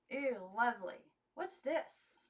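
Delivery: lightly voiced eager little girl; a hint of childish wonder; curious girls. A narrator's reading. Girls ask about necklace.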